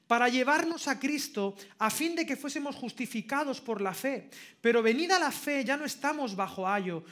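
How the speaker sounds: emphatic, forceful Bible reading aloud; scripture reading. Acted. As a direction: read the verses out with conviction. Lee la carta a los Gálatas. (lectura bíblica enfática)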